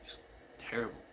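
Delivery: whispered softly, no voice at all. Real, not acted. Recalling the screaming brother, a soft whisper. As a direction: drop to a breathless whisper for emphasis. Comment then whispered repeat.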